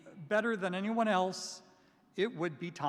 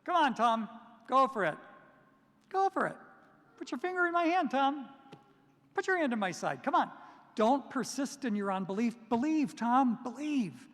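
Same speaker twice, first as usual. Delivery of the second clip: high, loud, coaxing dare; Jesus daring Thomas, high and loud; urging challenge; 5 semitones higher, 3 dB louder than usual. Retold or imitated. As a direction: call him on it, insistent. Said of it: "He said".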